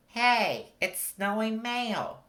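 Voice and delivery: put-on high, delighted child voice; a small girl marvelling at the flying cards; little girl. A narrator's reading. Girl calling to others about the mail, high and excited. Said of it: "a little girl said".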